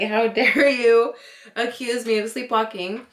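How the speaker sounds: playfully outraged, stretched out; mock indignation. Wife re-enacting her upset at husband's accusation, mock indignant. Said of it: "made me so upset".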